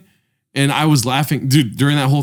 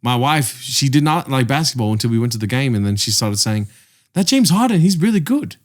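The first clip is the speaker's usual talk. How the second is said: mock Australian storyteller; Australian accent. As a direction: loose Australian accent, quoting someone within the story. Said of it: "I don't know how to do an Australian accent".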